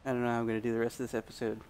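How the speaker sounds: strained, rough-throated voice; hoarse throat. Real, not acted. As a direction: talk through a sore, tired throat. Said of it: "but my freaking throat".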